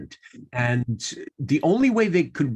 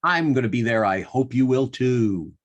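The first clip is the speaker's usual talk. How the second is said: measured, lower-pitched show plug; announcer sign-off; 4 semitones lower than usual. Acted. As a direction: plug the show to listeners, stretching the title. Host reads closing plug for show.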